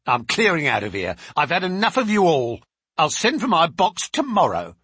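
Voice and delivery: loud, huffy resignation; angry servant woman. Acted. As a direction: quit on the spot in a temper. Voices the angry servant Susan quitting.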